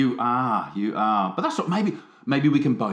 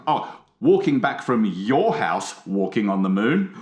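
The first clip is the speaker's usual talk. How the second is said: slow lyric reading. Shown as a demonstration. Reading the lyric aloud to his co-host, slowly. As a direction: read it slowly, lyric style. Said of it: "so you read the first one".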